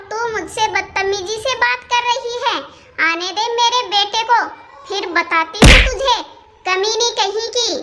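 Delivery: furious scolding. Acted. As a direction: scold her hard, then spit the insult. Mother-in-law threatens daughter-in-law.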